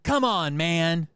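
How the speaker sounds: retold cop's exasperation; exasperated cop. Cop to the angry bystander, exasperated.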